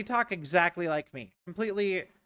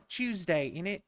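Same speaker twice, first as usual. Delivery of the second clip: light mock British accent. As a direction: toss in a quick put-on British accent. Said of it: "it's like British".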